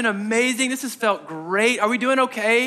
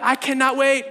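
eager; 5 semitones higher than usual. Acted. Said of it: "We're like".

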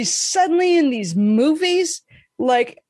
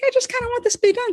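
inner voice; 10 semitones higher, much faster than usual. Retold or imitated. Inner thought, high pitch.

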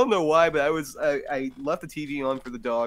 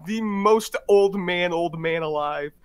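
excited; 10 semitones higher than usual. Real, not acted. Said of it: "retelling own shocked reaction".

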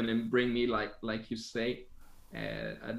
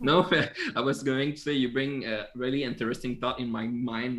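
ordinary talk, nothing marked

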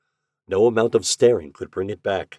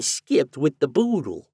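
landlady's slang; 7 semitones higher than usual. A narrator's reading.

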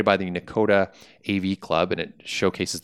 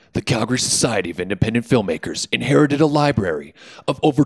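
epic trailer narration, pitched up; trailer narrator voice; 2 semitones higher than usual. Shown as a demonstration. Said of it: "practice my, uh, trailer narrator voice".

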